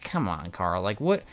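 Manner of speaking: high, mock-disbelieving protest; incredulous. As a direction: pitch it up in playful disbelief. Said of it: "you're just kinda like".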